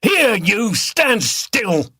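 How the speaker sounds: loud barked command; shouted order. A narrator's reading. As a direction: order him to stop struggling. Beater orders captive.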